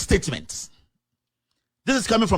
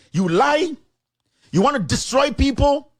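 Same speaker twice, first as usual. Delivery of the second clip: angry accusation; 7 semitones higher than usual. Real, not acted. Scolding the MP directly.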